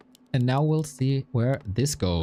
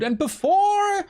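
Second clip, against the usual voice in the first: shouted; slower than usual. Real, not acted. Shouted lead-in.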